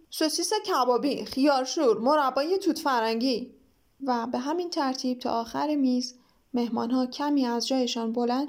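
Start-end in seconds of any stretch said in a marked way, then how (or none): 0.1-3.5 shout. Acted. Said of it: "فریاد کشید".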